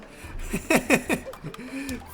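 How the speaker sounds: high burst of laughter; laughing. Real, not acted. Streamer amused by their own overacting, laughing. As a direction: crack up at your own performance.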